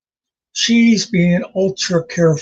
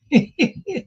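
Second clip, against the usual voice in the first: short high-pitched giggle; chuckle; 9 semitones higher than usual. Real, not acted. Joke teller amused at himself, a high chuckle. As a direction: let out a little staccato laugh.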